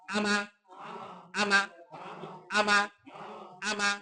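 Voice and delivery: আমা with both vowels cut short; short quick vowels. Shown as a demonstration. Teacher drilling joined syllables, short vowels in আমা. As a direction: say আমা quickly on a level note, no lengthening. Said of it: "তাড়াতাড়ি পড়তে হয়".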